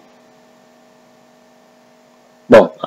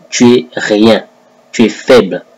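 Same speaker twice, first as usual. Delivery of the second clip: normal talking voice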